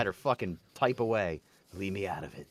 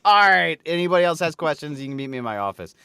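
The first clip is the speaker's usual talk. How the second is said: louder, brisk mock dismissal; fed-up boss; 6 dB louder, faster than usual. Boss ending a meeting of silly questions, mock fed-up. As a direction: imitate a boss shutting questions down.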